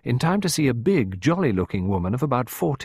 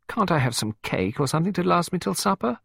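put-on high-pitched child begging for food; plead, with the pitch lifted; comical pleading; 9 semitones higher than usual. A narrator's reading. Hungry child asking stepmother for cake, pleading. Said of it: "a pleading look that was almost comical".

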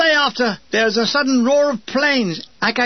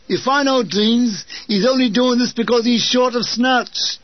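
scoffing gunner; 3 semitones higher than usual. A narrator's reading. Chalky scoffing at the offer.

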